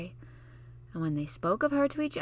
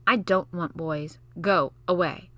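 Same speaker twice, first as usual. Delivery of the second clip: put-on slow, louder cross girl; cross refusal; 4 dB louder than usual. Mary telling Basil off, cross girl. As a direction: shut the boy out crossly. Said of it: "cried Mary".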